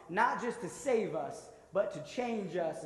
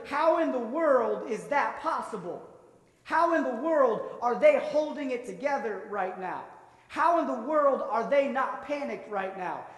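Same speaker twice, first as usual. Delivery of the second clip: louder, higher, baffled asking of one question after another; bewildered onlookers; 4 semitones higher, 4 dB louder than usual. Pretend. Puzzled people watching someone at peace in a crisis, louder and higher in disbelief. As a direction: sound like people who can't believe how calm you stay. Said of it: "they will wonder".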